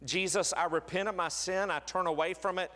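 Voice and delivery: a tender, sincere altar-call prayer; closing prayer. Acted. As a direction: pray aloud for the congregation, gently. Pastor leads closing prayer.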